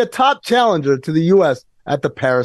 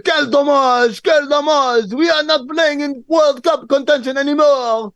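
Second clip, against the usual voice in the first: put-on French accent yelling; 11 semitones higher than usual. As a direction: yell it like an angry Frenchman. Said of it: "He's yelling at".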